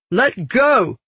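high-pitched, forceful demand; urgent cry. A narrator's reading. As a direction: cry out while struggling to get free. Struggling to break free.

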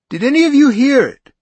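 high and squeaking. A narrator's reading. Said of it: "high and squeaking".

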